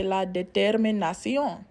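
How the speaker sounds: "la determinación" as in a Spanish class, stress on the last syllable; "la determinación" in Spanish, not English; Spanish pronunciation. Shown as a demonstration. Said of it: "To say determination in Spanish".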